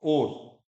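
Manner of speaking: "और" reduced to or; casual Hindi vowel. Shown as a demonstration. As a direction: say "और" without the au glide. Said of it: "कौन इतना जोर लगाएगा".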